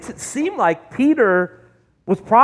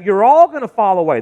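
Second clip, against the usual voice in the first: declaring louder; 6 dB louder than usual. Acted. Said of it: "So Jesus says to them".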